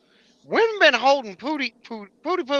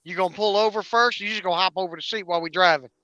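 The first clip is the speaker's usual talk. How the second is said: put-on smartass kids; 4 semitones lower, 4 dB quieter, faster than usual. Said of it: "my kids are sheer smartasses, they're like".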